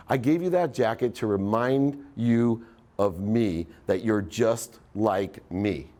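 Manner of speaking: slow, deliberate father; slow fatherly voice. Retold or imitated. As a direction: lay it out slowly like a patient dad. Dad explaining the jacket gift.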